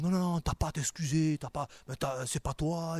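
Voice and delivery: lightly voiced devil, insistent; a hint of the tempter talking someone out of apologising; devil's urging. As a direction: play a mildly insistent devil. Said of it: "le diable, lui, nous dira toujours".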